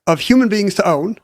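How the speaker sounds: put-on Southern accent. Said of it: "I love how your Southern accent".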